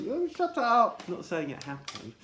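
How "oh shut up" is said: high, louder mock retort; embarrassed teen shutting it down; high shut up. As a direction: snap it up high.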